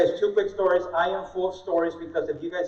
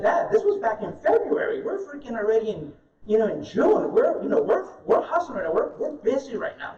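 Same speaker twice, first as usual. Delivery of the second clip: exasperated retelling; 5 semitones higher than usual. Retold or imitated. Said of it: "I said".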